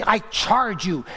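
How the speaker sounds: slow, weighty "I charge you"; "I charge you" drawn out as a firm command; emphatic charge. Retold or imitated. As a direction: lean hard and slowly on each word of "I charge you". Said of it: "Paul is emphatic".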